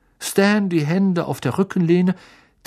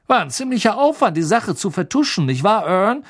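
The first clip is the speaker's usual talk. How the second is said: high, loud breathless storyteller; excited gossip; 7 semitones higher, 4 dB louder than usual. Acted. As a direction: relish every grisly detail. Stan voiced by narrator.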